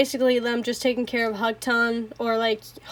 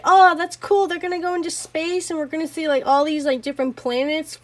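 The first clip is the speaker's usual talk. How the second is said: mock excited; 4 semitones higher than usual. Retelling her hopeful first reaction.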